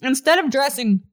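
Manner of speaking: talking around a hard candy; sucking a hard candy. Real, not acted. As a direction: mouth full of candy. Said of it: "I'm sorry, I'm eating".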